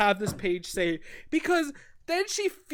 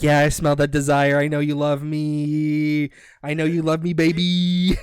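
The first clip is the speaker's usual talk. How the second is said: smug seducer; 9 semitones lower, 4 dB louder than usual. Retold or imitated. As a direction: croon it low, stretching out the endings. Voicing the smug cat lover.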